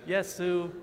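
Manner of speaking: Yesu held high and level, first tone; Chinese first tone. Shown as a demonstration. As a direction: sing Yesu on one high flat pitch. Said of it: "Repeat after".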